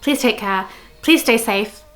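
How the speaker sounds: normal talking voice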